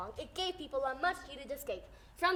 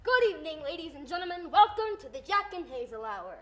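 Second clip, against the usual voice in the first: bright announcer welcome to the studio audience; old radio host; 3 dB louder than usual. Acted. Radio host welcoming listeners in a loud announcer voice. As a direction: greet the folks at home like a 1930s host. Mock radio show hosts.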